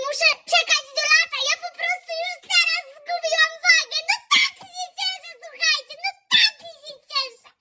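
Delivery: very high, fast and laughing at the end; giddy glee. Pretend. Vlogger bragging to viewers she lost weight, giddy squeal. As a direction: squeal with mock delight.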